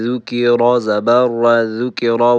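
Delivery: full, heavy R in را. Shown as a demonstration. Teacher spelling out the joined form, heavy R. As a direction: say each را in the spelling drill with a thick R.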